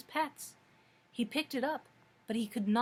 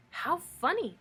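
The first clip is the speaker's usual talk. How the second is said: put-on higher-pitched girlish surprise; amused exclamation; 6 semitones higher, 3 dB louder than usual. A narrator's reading. Dorothy in the doorway seeing dancing forks, surprised exclamation. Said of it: "exclaimed Dorothy".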